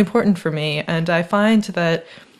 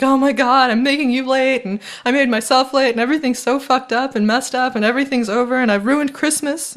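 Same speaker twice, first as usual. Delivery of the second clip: retelling a frantic, higher rush of apologies; hammed-up freak-out, higher and breathless; panicked friend; 6 semitones higher than usual. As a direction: mimic someone spiraling into panic. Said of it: "They were like".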